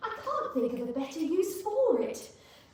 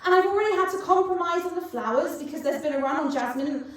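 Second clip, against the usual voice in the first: hysterical rant; 3 semitones higher, 5 dB louder than usual. Acted. Rising hysterical rant about wedding.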